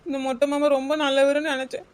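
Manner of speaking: tearful, words breaking with sobs; sobbing lament; crying. Acted. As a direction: cry through the line, let down by the uncle. Girl crying over disappointing groom.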